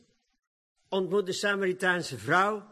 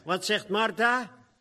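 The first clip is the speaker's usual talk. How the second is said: normal talking voice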